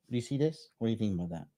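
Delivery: very soft, private pet talk; talking to dog. Real, not acted. Owner asking their dog for an opinion, very soft. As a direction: drop the volume way down, asking the dog. Talks softly to own dog.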